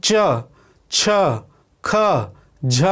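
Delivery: च, छ, ख, झ each sounded separately with pauses; consonant demo. Shown as a demonstration. Teacher sounding out consonants one by one. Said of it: "ये सब उच्चारण कर रहे हैं".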